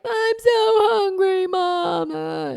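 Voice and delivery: put-on high, slow, drawn-out child's whine; be a hungry kid pleading with Mama; whining child. Mother imitating her whining children.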